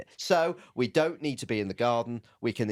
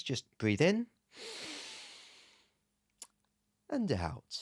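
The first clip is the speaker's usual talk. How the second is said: slow guided breathing with long pause; mock meditation app; 6 semitones higher, 7 dB quieter, slower than usual. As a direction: lead a breathing exercise, softening on the out. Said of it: "one of them headspace things".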